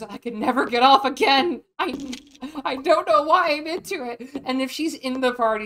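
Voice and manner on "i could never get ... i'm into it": flustered confession. Retold or imitated. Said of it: "that just goes".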